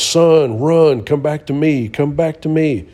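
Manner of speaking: loud, high, urgent call; a panicked father's shout; desperate yell. Retold or imitated. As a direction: yell for the boy to run back. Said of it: "And the dad yells".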